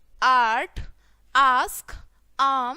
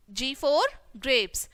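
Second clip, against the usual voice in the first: G for grapes drawn out slowly, word by word; slow and clear; 2 semitones lower, much slower than usual. Shown as a demonstration. Teacher repeating G for grapes slowly for children. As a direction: spell out G for grapes slowly for the class.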